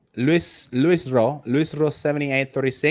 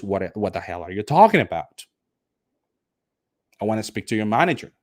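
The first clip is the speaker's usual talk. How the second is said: angry customer. Acted. Teacher acts angry customer.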